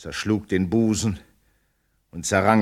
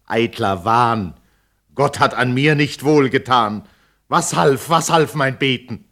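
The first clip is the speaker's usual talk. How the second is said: higher and louder, accusing God; raised, bitter voice of the grieving Lenore; bitter outcry; 4 semitones higher, 5 dB louder than usual. Acted. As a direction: rail against a prayer that failed. Lenore rejecting her mother's comfort.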